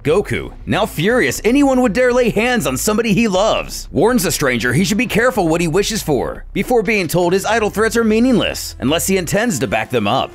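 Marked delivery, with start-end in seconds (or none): none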